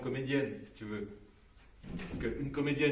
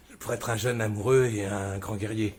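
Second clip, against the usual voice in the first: louder, grand self-praise; loud boast; 10 dB louder than usual. Real, not acted. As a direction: puff up like a hero. Boasting loudly, laughing.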